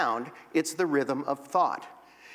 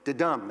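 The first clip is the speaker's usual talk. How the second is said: "dedum" with the weight on "dum"; stress on second syllable; 2 semitones lower than usual. Shown as a demonstration. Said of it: "an emphasis on the second syllable".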